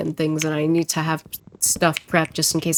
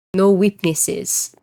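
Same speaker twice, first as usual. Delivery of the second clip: slow, badly faked Russian accent; amateur Russian accent; much slower than usual. Streamer mimicking the Russian text-to-speech, amateur Russian accent. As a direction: put on a drawn-out, untrained Russian accent. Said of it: "Can you tell that I'm not trained in accents?".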